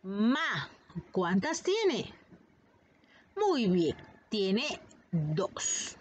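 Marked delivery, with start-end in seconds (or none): 0.0-0.7 "Ca-ma" split into two slow beats, ca then ma; syllable by syllable. Shown as a demonstration. Teacher sounding out "Ca-ma" for the class, syllable by syllable. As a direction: sound out "Ca-ma" beat by beat. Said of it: "Vamos por la primera".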